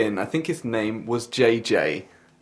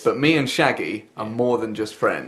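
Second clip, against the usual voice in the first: slow repeat. Shown as a demonstration. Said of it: "say that again".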